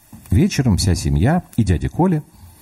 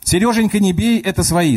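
wailing cry; 12 semitones higher than usual. Acted. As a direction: shriek to stop the fight. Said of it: "завопила бабушка".

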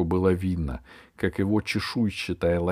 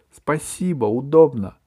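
put-on girl voice; 7 semitones higher, 6 dB louder than usual. A narrator's reading. Alice answers dragon.

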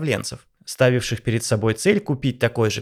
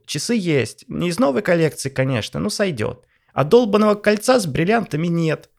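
whiny wife; 6 semitones higher than usual. Acted. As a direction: complain like a spoiled wife. Vanessa complains to husband.

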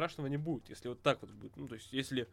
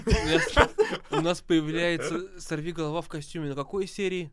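loud, shocked, higher exasperation; outraged boss; 4 semitones higher, 10 dB louder, slower than usual. Retold or imitated. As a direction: yell it in disbelief. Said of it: "поняли". (возмущённый начальник)

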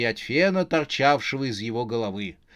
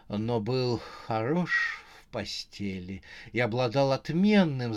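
reminiscing wife. Acted. Wife recalls husband dreamily. (мечтательное воспоминание, всё тише)

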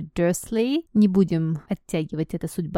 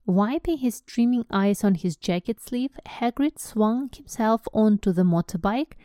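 storyteller reading, a little higher; story narration; 3 semitones higher than usual. A narrator's reading. Teacher reads the book's narration to listeners. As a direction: read the scene as it unfolds.

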